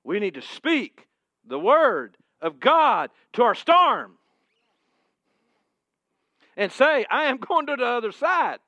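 loud, high, rousing preaching; full-force preaching. Acted. Pastor rousing the congregation to speak God's word, full-force preaching. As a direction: build the church up.

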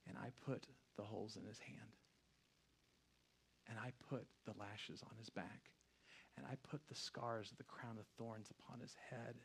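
low, very soft altar call; near-whispered invitation, low and solemn; hushed preaching. Real, not acted. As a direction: speak tenderly with long, weighty pauses. Hushed altar call after climax.

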